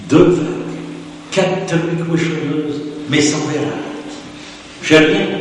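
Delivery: lively read-aloud of a rustic reply letter. Acted. Lecturer reading Delphine's reply letter, lively and amused. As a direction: read her answer with gusto, ending on a laugh.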